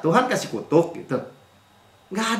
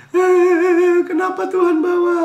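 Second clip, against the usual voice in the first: high, loud whiny complaint; grumbling Israelite; 11 semitones higher, 4 dB louder, slower than usual. Acted. Israelites grumbling to Moses, high whining protest. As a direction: grumble at God like a sulky crowd. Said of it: "bersungut-sungut kan".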